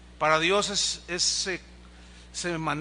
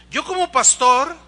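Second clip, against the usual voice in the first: loud and high, proclaiming; forceful proclamation; 7 semitones higher, 9 dB louder than usual. Real, not acted. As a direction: declare it from the pulpit. Pastor proclaims loudly. (proclamación en voz alta)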